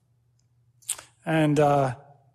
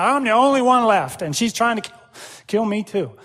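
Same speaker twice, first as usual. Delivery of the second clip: the prophet's complaint pushed out louder and higher; a louder, higher protest; emphatic complaint; 4 semitones higher, 5 dB louder than usual. Retold or imitated. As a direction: insist on being the only one left. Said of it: "but he's saying".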